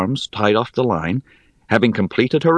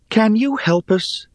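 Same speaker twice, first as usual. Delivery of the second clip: high, pleading voice; pleading Rhea; 13 semitones higher than usual. Acted. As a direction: beg for help, reaching up.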